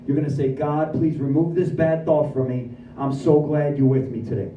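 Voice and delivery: lightly voiced sponsor, low and measured; sponsor's counsel. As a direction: imitate a mentor's low, earnest instruction. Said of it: "And Jerry goes".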